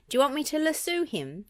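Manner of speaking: high, eager goofy offer. A narrator's reading. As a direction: offer help, all keen. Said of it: "asked Goofy".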